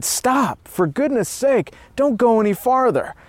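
contained storyteller's shout; narrated shout. A narrator's reading. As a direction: call them back in alarm, pitched high. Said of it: "so I shouted".

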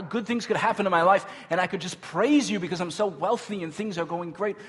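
pleading protest. Acted. Believer bargaining with God for blessing, pleading protest. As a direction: argue back, piling up the options.

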